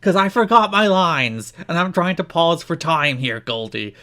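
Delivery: high, slow, hammed-up Raven stalling for time. Co-host asked for the voice, slow mock Raven. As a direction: drag it out like a wrestler who forgot his lines. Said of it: "Please do it in the voice".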